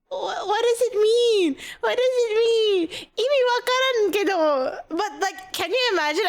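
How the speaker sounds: laughing plea. Real, not acted. Begging chat to explain the word, laugh-crying. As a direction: beg for an answer through giggles.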